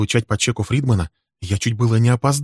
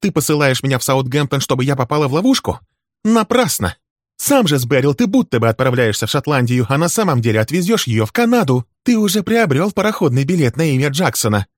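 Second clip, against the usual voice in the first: high, loud, raging accusations; much higher, louder screaming rant; furious tirade; 9 semitones higher, 6 dB louder than usual. Acted. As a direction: unload years of grievance at him. Wife's furious tirade continues.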